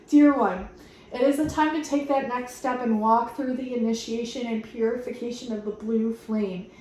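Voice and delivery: steady, gentle reading of a spiritual message; card message reading. Acted. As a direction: read it like a sincere blessing. Reads card message aloud.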